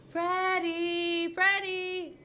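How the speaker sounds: put-on teacher calling for a hiding boy. A narrator's reading. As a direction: search the halls calling his name.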